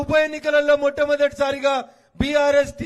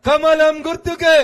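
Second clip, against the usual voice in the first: loud, slow rally shout; shouted slogan; 7 dB louder than usual. Real, not acted. Leader asking the crowd to say it louder, slow shouted slogan. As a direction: bellow the slogan for the crowd to echo. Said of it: "జర గట్టిగా చెప్పాలి".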